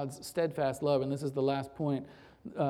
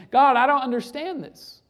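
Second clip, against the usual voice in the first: heartfelt lament; 5 semitones higher, 5 dB louder than usual. Acted.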